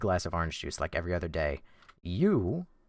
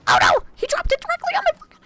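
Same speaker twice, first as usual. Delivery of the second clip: high, loud, fast shriek; oh no scream; 8 dB louder, faster than usual. Real, not acted. Streamer hit by a dropped attack, shrieking. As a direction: yelp as the blow lands. Enemy drops attack on him.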